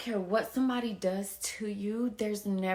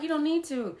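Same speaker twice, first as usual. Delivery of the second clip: higher, louder reassuring neighbor; neighbor lady; 7 semitones higher, 6 dB louder, faster than usual. Retold or imitated. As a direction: talk her out of her doubt. Neighbor voiced in retold story.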